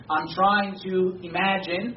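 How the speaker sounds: slow, leaning hard on "imagine"; stress on imagine. Shown as a demonstration. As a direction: draw out and weight the word "imagine". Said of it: "and I'll stress the word imagine".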